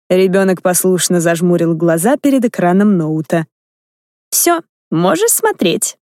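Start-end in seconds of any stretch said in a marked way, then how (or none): 4.3-6.0 calm, level and slow; even voice. Acted. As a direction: say it evenly, unbothered. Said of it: "ровным голосом проговорила".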